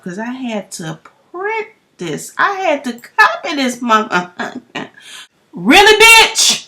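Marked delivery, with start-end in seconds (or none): 5.5-6.7 high, slow, sarcastic disbelief; incredulous. Retold or imitated. Storyteller mocking the uncle's message, high and slow. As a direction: drag it out, outraged and mocking.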